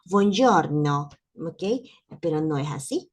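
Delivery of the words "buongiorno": Italian buongiorno. Shown as a demonstration. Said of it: "la R del italiano".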